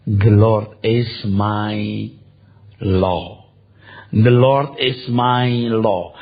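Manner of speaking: very slow, drawn-out declaration; slow solemn recitation. Shown as a demonstration. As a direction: proclaim each word slowly. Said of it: "Mari katakan". (ucapkan perlahan dengan khidmat)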